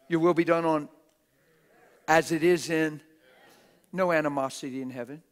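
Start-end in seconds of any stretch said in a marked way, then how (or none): 0.1-3.0 loud, forceful recitation of the prayer; shouted prayer. Shown as a demonstration. Preacher shouting the Lord's prayer at the church. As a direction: hammer every word of the prayer. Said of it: "Isn't that how he said to pray?".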